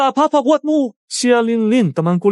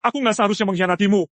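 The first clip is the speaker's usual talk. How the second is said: desperate pleading; 4 semitones lower than usual. Acted. Husband begs wife not to divorce.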